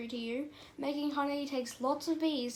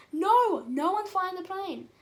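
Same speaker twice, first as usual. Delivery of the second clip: higher alarmed cry, louder on the opening word; mild acted alarm; 5 semitones higher, 5 dB louder, slower than usual. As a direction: cry out at a sudden discovery, slightly hammed-up. Alarm at pilotless plane.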